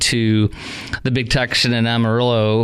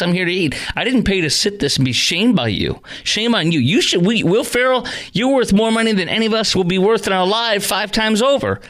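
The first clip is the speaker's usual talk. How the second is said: high-pitched indignant rant; acted heckle, climbing higher as it builds; heckling boo; 7 semitones higher than usual. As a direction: tell them off like a fed-up diner heckling the stage. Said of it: "My, my boo would be saying".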